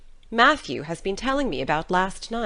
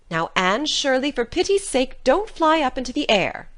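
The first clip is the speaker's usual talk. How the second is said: put-on louder, emphatic older-woman scolding; exasperated warning; 3 semitones higher, 4 dB louder than usual. A narrator's reading. Marilla warning excitable Anne, exasperated and emphatic. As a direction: warn her firmly, building louder.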